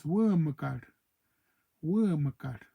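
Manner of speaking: put-on teacher giving the old family word; old word demo. Shown as a demonstration. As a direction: say "Wurmkar" twice, each with a falling end. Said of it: "it was".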